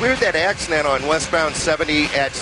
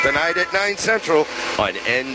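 ad read. Acted. Reads sponsored ad.

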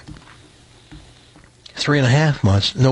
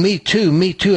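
put-on higher, eager boyish calls; mock excited yell; 7 semitones higher than usual. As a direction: shout it like a thrilled kid on a fishing line. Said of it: "Ward is yelling".

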